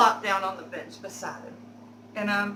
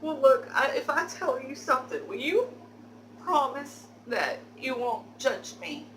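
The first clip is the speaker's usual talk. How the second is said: fake crying; 4 semitones higher than usual. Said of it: "fake tears that I can create".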